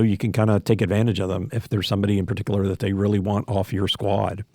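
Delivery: hissing whistle on s sounds; s sounds whistle through the teeth; whistling s. Real, not acted. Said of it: "sorry about the whistling".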